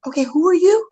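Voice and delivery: laughing confusion. Retold or imitated. Coach meeting an overeager young stranger, laughing. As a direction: ask it through a laugh, amused. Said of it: "I'm like".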